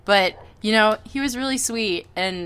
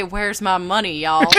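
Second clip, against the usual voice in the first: put-on southern accent. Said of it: "you doing his southern accent".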